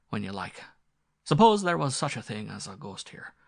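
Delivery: lightly voiced squire, half gruff; blustering squire. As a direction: bluff master cajoling his old servant. Squire coaxes his butler.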